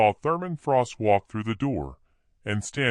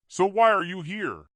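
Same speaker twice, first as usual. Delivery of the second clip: Ashley pressing Shane, stressing the ends of her words; stressed word endings; 10 semitones higher than usual. A narrator's reading. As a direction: lean hard on the ends of words. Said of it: "with emphasis on the back end of her words".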